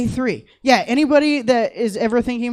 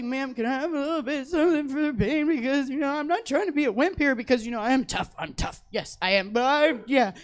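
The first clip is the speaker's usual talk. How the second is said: soft, higher timid plea; meek pleading; 4 semitones higher, 4 dB quieter than usual. Retold or imitated. Asking the nurse for pain meds, meek and soft. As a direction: beg politely through tears, lightly voiced. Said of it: "I'm just in tears".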